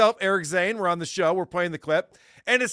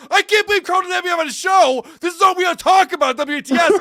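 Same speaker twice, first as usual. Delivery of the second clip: higher mock whine of Mike complaining; mocking Mike's complaint; 8 semitones higher, 4 dB louder than usual. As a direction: whine it like a pouty co-host. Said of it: "he's just like".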